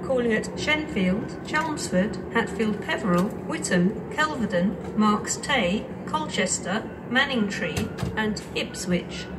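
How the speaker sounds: over the station tannoy; echoing platform PA voice; train station announcement. Real, not acted.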